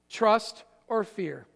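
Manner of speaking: slow, deliberate Trust or fear with a pause between; slow emphatic. Shown as a demonstration. Pastor drilling the two choices into the church, slow. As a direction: lay each word down slowly. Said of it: "write these two words".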